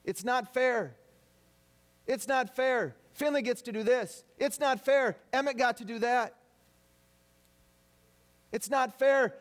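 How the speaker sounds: a hint of a whining child, rising to a shout; whiny kid complaint. Kids complaining to parents, whining it's not fair. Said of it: "ever hear that from your kids".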